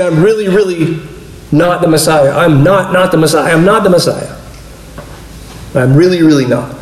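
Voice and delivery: really and not pressed hard again and again; double emphasis. Retold or imitated. John insisting to the priests that he's not the Messiah, emphatic. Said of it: "this double emphasis on it".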